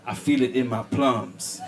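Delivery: a hint of a mystic sensing it in his plums; mock mystic. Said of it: "as a joke, just to amuse myself".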